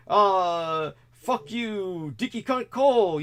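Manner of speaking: high, loud, hateful jeer; seething hatred. Retold or imitated. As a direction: spit it out with hatred. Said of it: "seething evil and hatred where he would just say".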